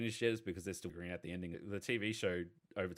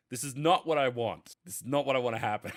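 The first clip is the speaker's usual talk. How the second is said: louder, mildly angry protest; retold fan outrage, leaning on "not"; mock exasperated anger; 5 dB louder than usual. Fan retelling his anger at a show, mildly exasperated. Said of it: "also makes me so angry because I'm like".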